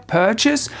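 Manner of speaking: "purchase" said with no audible R, British style; silent R. Shown as a demonstration. Teacher repeating the word without an R. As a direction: drop the R in "purchase". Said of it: "Ici, on n'entend pas le R".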